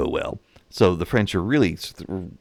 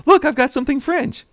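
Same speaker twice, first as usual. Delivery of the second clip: high, louder mock boast of a French snob; bragging Frenchman; 5 dB louder than usual. Frenchman bragging to a buyer, in a high mock snobby voice. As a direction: show off your French goods in a high, puffed-up voice.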